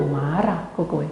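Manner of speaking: usual speaking voice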